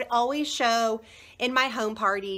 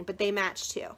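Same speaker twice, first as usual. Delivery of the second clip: whispered aside; 6 semitones lower, 7 dB quieter than usual. Real, not acted. Aside about matching.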